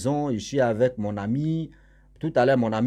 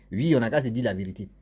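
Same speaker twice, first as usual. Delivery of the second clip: usual speaking voice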